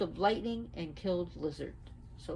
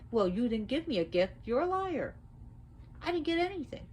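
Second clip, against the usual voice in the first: accusing Oya; 8 semitones higher than usual. Acted. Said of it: "She said".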